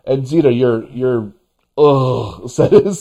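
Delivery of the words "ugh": imitated groan of disgust. Host quoting Zita's reaction to the name, disgusted groan. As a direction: echo a friend's grossed-out ugh. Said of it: "says it all".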